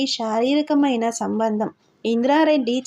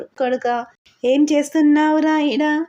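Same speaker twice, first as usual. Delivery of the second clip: angry landlord; 3 semitones higher, 3 dB louder than usual. Acted. Landlord confronting the servant, angry and loud. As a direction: demand an answer like a furious master.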